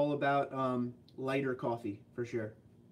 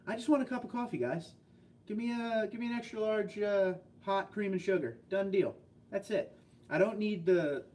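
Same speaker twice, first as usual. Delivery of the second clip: higher, fed-up customer voice; pitched-up mock exasperation; exasperated plain order; 6 semitones higher than usual. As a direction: play the fed-up customer asking for plain coffee. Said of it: "you hear people order this stuff".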